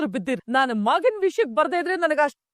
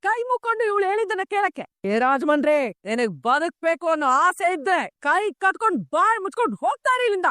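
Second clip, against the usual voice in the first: scornful mocking; 3 semitones higher than usual. Mother-in-law mocks and orders out.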